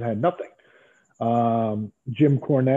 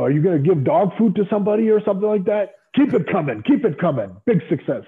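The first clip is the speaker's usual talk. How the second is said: excited boss; 8 semitones higher, 4 dB louder than usual. Retold or imitated. Boss's excited praise retold.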